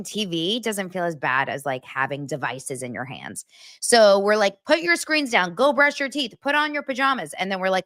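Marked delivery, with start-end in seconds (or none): 4.7-7.3 higher, sing-song bedtime commands; mock parent orders. Parent giving kids the bedtime routine, sing-song. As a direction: chirp the bedtime list.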